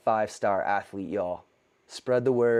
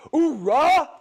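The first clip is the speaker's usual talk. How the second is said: loud gung-ho soldier cry; Marine shout; 7 dB louder than usual. Real, not acted. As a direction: bark it like a Marine. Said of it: "That's some Marine come out of me".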